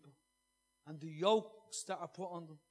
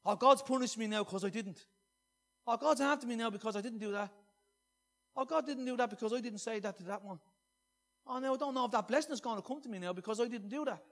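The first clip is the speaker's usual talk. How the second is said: whiny complaint; 2 semitones higher, 4 dB louder than usual. Retold or imitated. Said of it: "you start making statements like that".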